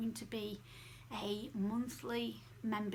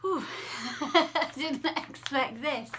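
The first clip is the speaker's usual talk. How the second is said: laughing it off; 4 semitones higher, 8 dB louder, slower than usual. Real, not acted. Caught off guard by own tears.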